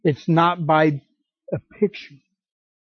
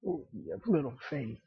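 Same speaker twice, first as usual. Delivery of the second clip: much softer, sighing and disappointed; mock weary sigh; 12 dB quieter than usual. Shown as a demonstration. Jesus as he did not say it to the disciples, soft sighing mock. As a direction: breathe it out like a let-down parent. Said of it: "he didn't say that like".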